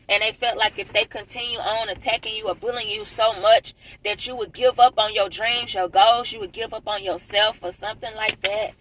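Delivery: talking through a swollen mouth. Real, not acted. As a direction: speak as if teeth were just pulled. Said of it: "my mouth still swole from my teeth being pulled".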